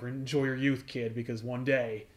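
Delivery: put-on a quiet threat to the kid; ominous. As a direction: Nick warns Peter, soft and menacing. Nick's ominous line retold.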